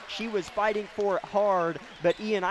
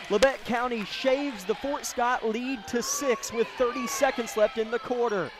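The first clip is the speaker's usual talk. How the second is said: excited play-by-play; 4 semitones higher than usual. Real, not acted. Follows up on made three.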